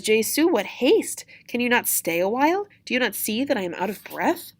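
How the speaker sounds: acted put-upon complaint; protesting nurse. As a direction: protest at being rushed. Nurse protests she is breathless.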